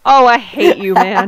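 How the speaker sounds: loud mock outrage; playful envy. Real, not acted. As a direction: blurt it out in teasing envy.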